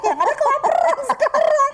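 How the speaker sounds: high, laughing through the words. Real, not acted. Telling the host about post-surgery hunger, laughing. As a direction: laugh it out at your own story.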